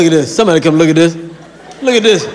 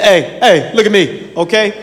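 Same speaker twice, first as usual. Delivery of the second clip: a hint of a rambling old grandpa; lightly voiced old southern grandpa, half laughing. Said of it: "He said".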